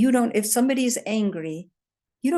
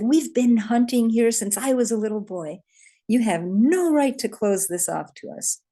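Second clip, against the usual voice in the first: raised, louder angry protest; angry hunter; 4 semitones higher, 3 dB louder than usual. Retold or imitated. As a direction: confront the landowner, higher and louder. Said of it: "you seem really angry".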